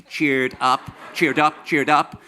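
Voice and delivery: mock cheer.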